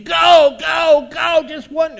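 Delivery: high, loud urgent yell; yelling inner voice. Acted. Inner voice yelling temptation at the believer, loud high yell. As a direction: push them over the line. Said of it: "Your voice inside is yelling at you".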